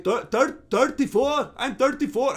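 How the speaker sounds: halting attempt at an Irish accent; badly faked Irish accent. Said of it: "how to do an Irish accent".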